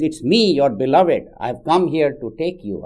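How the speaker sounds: loud, high, proud claim to be let in; arrogant demand. Acted. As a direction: announce yourself as if you're owed entry. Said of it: "First time he was banging and very arrogant".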